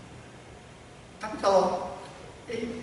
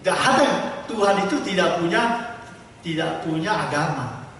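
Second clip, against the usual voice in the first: emphatic declaration; 3 semitones higher, 6 dB louder than usual. Real, not acted. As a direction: hammer the point home. Emphatic preaching punchline. (penegasan keras)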